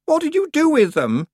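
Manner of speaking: high loud gasped question; gasping panic. Acted. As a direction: gasp it out in alarm. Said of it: "she gasped".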